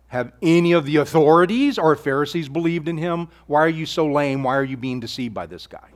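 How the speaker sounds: mild sneer, looking down on them; a light condescending scoff at the guards; sneering condescension. Shown as a demonstration. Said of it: "You need to read that with a sneering, condescending kind of voice".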